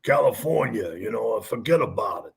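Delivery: lightly done Italian-American character accent; low-key mock Italian accent. Shown as a demonstration. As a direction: put on a hint of an Italian pizza-ad guy. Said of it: "uh, Italian voices".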